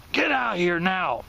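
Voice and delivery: usual speaking voice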